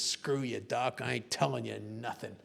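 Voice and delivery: low-pitched tough-guy defiance; lightly acted macho bravado; macho American spy. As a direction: play the unbreakable spy, low and dismissive. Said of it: "this macho American spy says".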